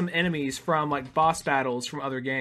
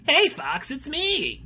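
high voice pulled lower toward a grown man; deeper voice; 10 semitones higher, much slower than usual. Retold or imitated. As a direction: say it with a slightly lower, more grown-up tone. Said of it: "to being kinda like".

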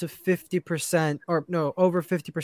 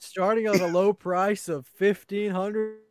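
slow, deliberate keynote price reveal; Tim Cook impression; 3 semitones higher, slower than usual. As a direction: announce the price slowly on stage. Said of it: "I broke out of character there".

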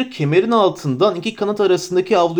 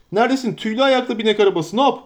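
higher, eager innkeeper voice at a quick clip; a flustered, fussing landlord; bustling innkeeper; 6 semitones higher, faster than usual. Acted. Innkeeper Butterbur welcoming the hobbits, eager and fussy.

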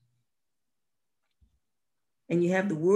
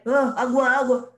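imitating a Spanish speaker; 7 semitones higher, 8 dB louder than usual. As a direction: say "agua" the Spanish way, like the man. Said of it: "to see that man like".

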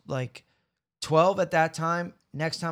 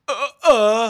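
startled stammer; 8 semitones higher, 10 dB louder than usual. Retold or imitated. Caught landing in a party.

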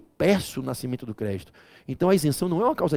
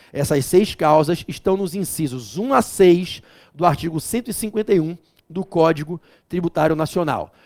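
repetido devagar. Shown as a demonstration.

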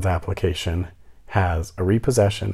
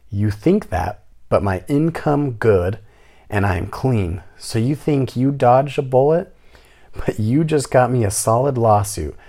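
mocking the tenant; 2 semitones higher, 3 dB louder than usual. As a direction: parrot her indignant rant back. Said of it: "This is how she talks".

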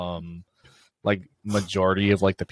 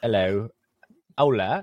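attempted British accent on hello and hola; British-accented Spanish. Shown as a demonstration. Friend trying Spanish in a British accent on request, laughing. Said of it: "Just do, like, a British accent".

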